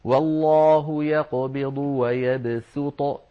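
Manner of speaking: ويبسط recited slowly with a plain, light s; measured recitation, a clear s in ويبسط; sin in ويبسط. Shown as a demonstration. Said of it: "نقرأها بالسين".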